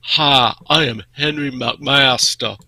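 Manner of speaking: a light, slow Southern drawl imitating the governor; hint of a Southern governor's accent; mock Southern greeting, drawn out. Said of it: "who has got the world's best Southern accent".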